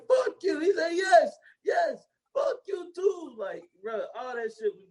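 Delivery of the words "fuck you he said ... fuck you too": much higher cheeky comeback; high mock retort. Retelling the street argument, high mock retort. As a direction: fire it back high and silly. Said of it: "He was like".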